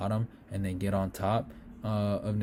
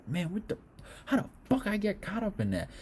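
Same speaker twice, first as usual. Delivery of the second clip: imitating Cutelaba; 11 semitones higher, 3 dB quieter than usual. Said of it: "if I'm Cutelaba looking back".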